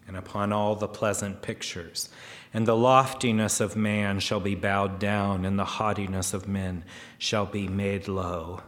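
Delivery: firm, measured verse reading; lightly declaimed verse for a congregation; scripture reading. Acted. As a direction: read it out as solemn scripture. Reads scripture aloud to congregation.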